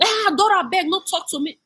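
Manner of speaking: hammed-up imitation of the other woman; mocking imitation. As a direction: parody her snooty brush-off. Mimicking the other woman again.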